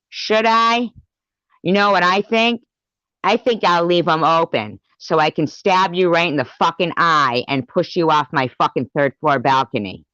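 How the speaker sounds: loud, high, angry threats; furious rant. Real, not acted. Raging at a rival who threatened her. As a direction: yell the threats at them.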